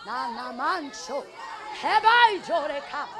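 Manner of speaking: ecstatic tongues; speaking in tongues. Real, not acted. Preacher breaking into tongues during the sermon. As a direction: let the tongues flow out.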